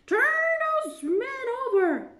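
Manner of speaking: high, loud command; commanding queen. A narrator's reading. Queen orders the knave, commanding.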